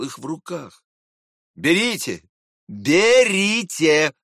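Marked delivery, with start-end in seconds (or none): 2.7-4.1 slow, louder, drawn-out repeat; unkind, drawn-out mocking insistence. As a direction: press the word with a nasty smirk. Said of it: "усмехнулся он опять".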